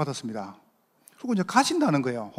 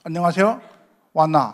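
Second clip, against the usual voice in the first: Gyeongsang dialect slipping back through; a hint of Busan Gyeongsang dialect. Shown as a demonstration. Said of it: "요게 각인이라".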